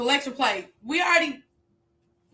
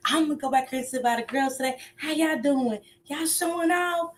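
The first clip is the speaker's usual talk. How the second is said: lightly voiced churchgoer, higher and quick; a hint of a nosy sister sliding into the pew; imitating Mel; 4 semitones higher than usual. Mel sneaking to the back pew, lightly mimicked. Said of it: "Mel wanna come back here and whisper".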